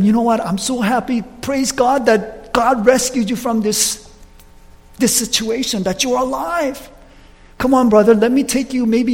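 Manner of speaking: joyful greeting. Retold or imitated. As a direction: pour out relief and welcome. Greeting the released pastor joyfully.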